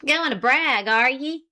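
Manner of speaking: remorseless jab. A narrator's reading. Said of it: "remorseless comment".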